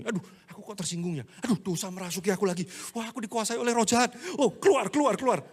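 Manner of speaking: fast mock fretting that rises into shouting keluar; hammed-up fear of an evil spirit, then a mock exorcism yell; mock panic building to a shout. Believer mocking himself for feeling offended, fast panic rising to a shout.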